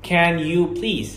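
"can you please" in a native-like English accent, slowly; a careful native-style English "can you please". Shown as a demonstration. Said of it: "بدل ما تقول please".

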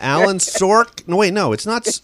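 loud, high mock announcer catching himself; imitated radio host. Author imitating interviewers who confuse his name, mock radio host. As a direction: imitate a host booming the name, then stumbling. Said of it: "Every time any radio person interviews me, they go".

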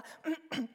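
a prim little ahem; aunt clearing her throat to compose herself. Acted. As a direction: clear your throat before putting on a proper voice. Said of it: "så kremtet hun".

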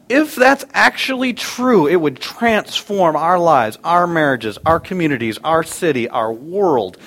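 high, loud, slow preacher build; preaching emphasis. Real, not acted. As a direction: lift it up and lean on it.

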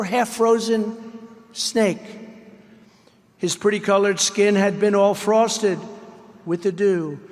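dramatic poem reading, voicing each character; poem recitation. A narrator's reading. Reading a poem to a rally crowd, dramatic recitation. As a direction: read the snake poem like a storyteller to the crowd. Reads The Snake poem aloud.

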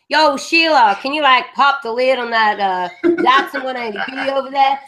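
mock bogan Australian drawn from bad game dubs; cartoonish Aussie bogan accent; exaggerated Australian accent. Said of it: "how badly ... do the Australian accent".

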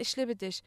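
"Ich liebe dich" said as one word, "ischlibedisch"; imitated learner pronunciation. Quoting foreigners showing their one German word, "Ich liebe dich" slurred together. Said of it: "Ich kann auch ein Wort".

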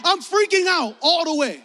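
high, loud comic freak-out; loud, hammed-up alarm; retold panic. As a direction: blurt it in exaggerated panic. Relives panic as a child.

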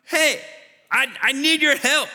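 high, excited greeting. Acted. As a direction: greet him like a long-lost buddy. Saul greets his dead friend.

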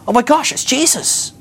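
high, slow, hammed-up astonishment; amazed revelation. Peter realising who is on shore, mock amazement. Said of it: "Peter has this revelation".

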